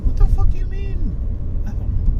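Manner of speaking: very high-pitched retold indignant disbelief; baffled retort. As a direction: squeak out a stunned comeback. Retold comeback to angry wife.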